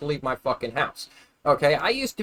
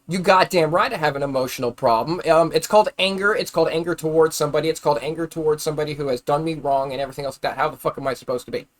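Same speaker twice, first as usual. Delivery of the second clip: angry. Real, not acted. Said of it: "that little rant".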